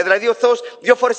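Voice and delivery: normal talking voice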